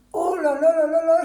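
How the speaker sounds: groaning through a big stretch; long high groan while stretching. Real, not acted. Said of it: "je m'étire".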